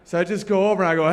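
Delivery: usual speaking voice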